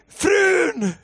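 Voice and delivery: high, loud scream for help; re-enacted scream. Husband screams for his wife, high panicked yell. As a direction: holler for your wife in panic. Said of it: "jag skrek".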